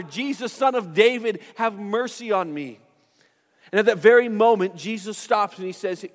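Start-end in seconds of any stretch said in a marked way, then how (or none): 0.0-2.8 pleading call retold with raised pitch, not volume; mock yell. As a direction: imitate a beggar crying out insistently. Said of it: "begins to yell even louder".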